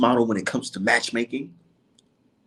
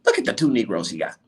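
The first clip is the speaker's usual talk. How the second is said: mocking critics. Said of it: "People today told me".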